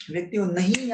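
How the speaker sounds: usual speaking voice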